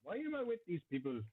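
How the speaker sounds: put-on Indian Irish accent. Player voicing the companion Braddock looking at the party, mild Indian Irish accent. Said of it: "That's quite the accent you gave him".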